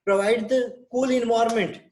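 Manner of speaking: very slow, each word separated; slow dictation. Shown as a demonstration. Teacher dictating sponge bath to the class, very slow. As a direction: give them time to write every word. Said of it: "teacher dictating care plan".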